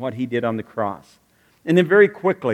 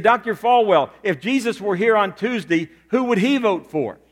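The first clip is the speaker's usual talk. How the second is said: reporter's question; 5 semitones higher than usual. Retold or imitated. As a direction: press the point as a reporter. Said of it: "And he said".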